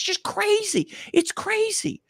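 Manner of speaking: an awed whisper; whispered awe. Real, not acted. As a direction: breathe it in wonder. Awed aside.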